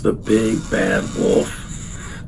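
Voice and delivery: slow spooky storyteller intro; ominous wolf title. Acted. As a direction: drag out the big bad wolf like a threat. Announcing the villain of story.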